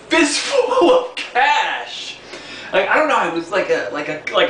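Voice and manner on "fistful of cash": laughing. Real, not acted. Woman gives crying kid money.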